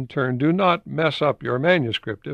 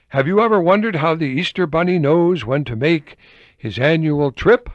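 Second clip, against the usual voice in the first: higher, louder, sing-song read; catchy opening line; 5 semitones higher, 5 dB louder than usual. Retold or imitated. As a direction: sell it like a playful hook. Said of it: "started off the article with".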